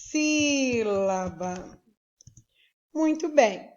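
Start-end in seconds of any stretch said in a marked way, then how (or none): 0.0-1.8 "trissílaba" slowly broken apart with pauses; silabado. Shown as a demonstration. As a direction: stretch "trissílaba" out, pausing after tri. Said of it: "você abre a boca três vezes". ("trissílaba" bem devagar, separando as sílabas)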